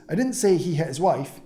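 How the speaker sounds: didn't punched, the rest falling away; stress on didn't. Shown as a demonstration. Coach demoing Hormozi's sentence, stress on didn't. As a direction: hit the word didn't hard. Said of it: "same sentence with completely different tone".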